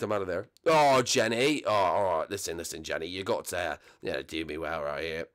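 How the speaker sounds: usual speaking voice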